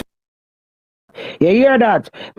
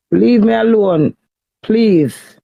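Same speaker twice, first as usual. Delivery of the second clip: slower, drawn-out loud begging; loud, slowed plea to be left alone; 5 dB louder, much slower than usual. Real, not acted. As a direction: stretch each word out, pleading hard. Wife pleading with husband, loud.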